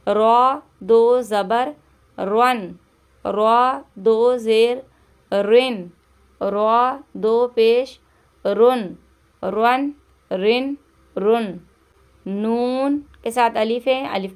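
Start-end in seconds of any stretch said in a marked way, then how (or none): 0.1-11.6 रॉ said thick with a rounded dark vowel; heavy r for a Quran reading class. Shown as a demonstration. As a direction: make रॉ full and heavy. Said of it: "रॉ को मोटा पढ़ेंगे".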